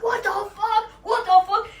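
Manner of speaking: high disgusted what the fuck; shocked outrage. Retold or imitated. The vomited-on customer shrieking in shock. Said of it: "He's like".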